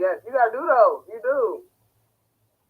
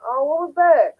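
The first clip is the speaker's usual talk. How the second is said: mock surprised accusation; 8 semitones higher, 9 dB louder than usual. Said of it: "where it's been like".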